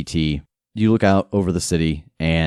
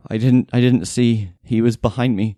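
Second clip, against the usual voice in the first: raised, hesitant voice; shaken housekeeper; 6 semitones higher, 4 dB louder than usual. Acted. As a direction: answer as the rescued housekeeper. Housekeeper answers questions.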